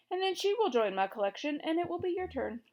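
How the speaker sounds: a light pleased threat; cheerful king. A narrator's reading. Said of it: "said the king cheerfully".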